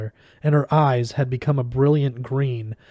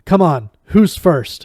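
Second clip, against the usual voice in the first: loud, higher, slow defiant shout; 5 semitones higher, 8 dB louder than usual. A narrator's reading. Benedict shouting a challenge at Martin Chatwin, loud. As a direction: bellow the challenge at the mob. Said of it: "he shouted".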